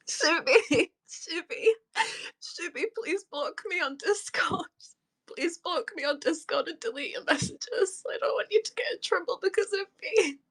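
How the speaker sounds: tearful, urgent pleading; real distress, voice wobbling with tears; crying. Real, not acted. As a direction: plead with a friend through sobs. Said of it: "I'm just crying".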